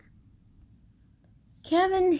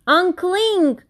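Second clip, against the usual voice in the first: high, louder urgent call; 8 semitones higher, 6 dB louder than usual. Acted. The crowd below calling urgently up to Kevin, high and louder. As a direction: yell up to him to let go. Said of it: "the crowd called".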